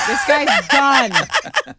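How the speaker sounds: drawn out. Acted. Drawn-out mocking declaration.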